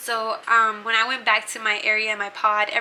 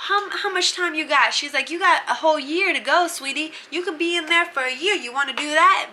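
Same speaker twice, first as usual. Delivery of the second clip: warden yelling; 5 semitones higher than usual. Retold or imitated. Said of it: "She was yelling at her".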